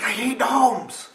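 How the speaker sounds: high slow shriek, I hate gnomes; freaked out. Retold or imitated. Friend freaking out at a gnome ad, slow high shriek. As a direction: wail it in mock terror, drawn out. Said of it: "she freaked out".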